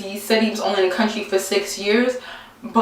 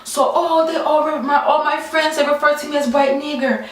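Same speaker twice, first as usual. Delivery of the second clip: imitating Italian accent; 6 semitones higher than usual. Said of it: "he has an, an Italian accent".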